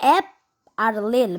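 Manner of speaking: "অ্যাপ" and "লেল" as two separate parts, a pause between; word split into syllables. Shown as a demonstration. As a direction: break apple into "অ্যাপ", pause, then "লেল". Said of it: "দুইটা word তৈরি করতে হবে syllable". ("অ্যাপ" আর "লেল" আলাদা করে, মাঝে থেমে)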